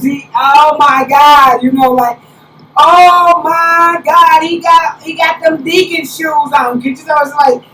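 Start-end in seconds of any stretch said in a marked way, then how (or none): 0.0-1.6 slow, louder mock exclamation; mock shock. Retelling her shock at the shoes. 2.8-6.8 slow, louder mock exclamation; mock shock. Retelling her shock at the shoes.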